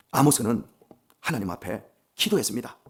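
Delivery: usual speaking voice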